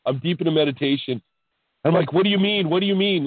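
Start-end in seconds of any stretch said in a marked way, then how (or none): 2.1-3.3 higher puzzled repeat; retold puzzled question. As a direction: demo the baffled asking. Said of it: "Like that".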